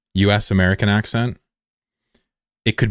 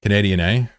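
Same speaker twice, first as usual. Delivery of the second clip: mock Canadian accent. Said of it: "they start to sound Canadian".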